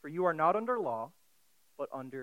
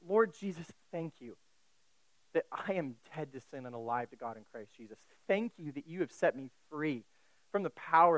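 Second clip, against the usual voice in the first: prayer; 3 semitones lower than usual. Acted. Leads a prayer.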